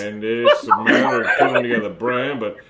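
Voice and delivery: put-on robot mouth keeps rambling in a light Minnesota accent; chatty Minnesota recipe talk, slowing near the end; a hint of Minnesota, amused. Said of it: "this is a Minnesota accent".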